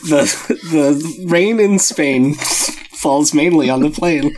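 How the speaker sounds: slow, overdone elocution lesson on "the rain in Spain"; hammed-up My Fair Lady diction drill; lightly voiced Henry Higgins drill; mock elocution. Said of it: "Henry Higgins".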